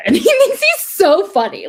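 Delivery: laughing while speaking, loud and high. Real, not acted. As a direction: talk through a laugh. Laughing at dad's joke.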